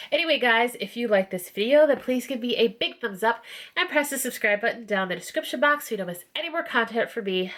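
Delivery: stuffy nasal congested voice. Real, not acted. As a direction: speak through a blocked, nasal nose. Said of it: "I sound like a nasally, gross mess".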